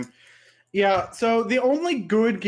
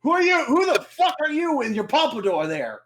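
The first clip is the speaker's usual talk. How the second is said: mock villain; 4 semitones higher than usual. Acting out Marek, confused and rude.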